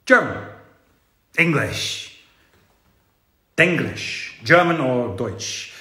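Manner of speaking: put-on German accent, spaced-out words. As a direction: play at a German accent, word by word. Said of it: "I'm gonna do the accent".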